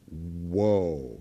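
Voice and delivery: low, drawn-out whoa of awe; awed whoa. Shown as a demonstration. Showing the congregation how to say it, low awed whoa. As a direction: breathe out a low, amazed whoa. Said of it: "you'll also go".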